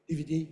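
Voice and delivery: "D V D" run together with short vowels; underpronounced letters. Retold or imitated. Teacher imitating non-native speakers, underpronounced letters. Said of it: "so often are underpronounced".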